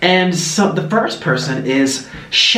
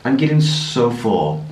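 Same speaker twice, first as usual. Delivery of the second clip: talking with a mouth full; 3 semitones lower, slower than usual. Real, not acted. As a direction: speak around a bite of sushi. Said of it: "I'm gonna have another bite".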